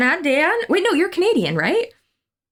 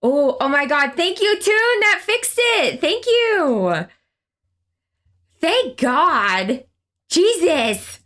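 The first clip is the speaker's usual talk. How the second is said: higher, thrilled thank you; relieved gratitude; 6 semitones higher, slower than usual. Real, not acted. Relief after the bug is fixed.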